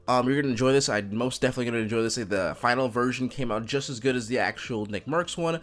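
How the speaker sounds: groggy just-woke-up morning voice; sleepy morning voice, just out of bed. Real, not acted. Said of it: "I also have morning voice 'cause I just woke up".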